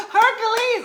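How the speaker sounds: very high, loud imitation whoop; mock whooping cheer. Imitating mom cheering on the tank top man, high loud whoop. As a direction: whoop the name like a heckler. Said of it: "like that".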